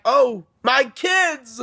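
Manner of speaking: slow, stretched-out mock exclamation; retold delighted greeting. Grandpa comes out to his kids, mock delighted greeting. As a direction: imitate a grandpa hailing his family.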